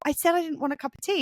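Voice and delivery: mildly indignant reminder of a refusal; protesting son. Retold or imitated. Retold son protesting unwanted tea.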